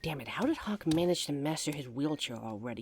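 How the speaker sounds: ordinary talk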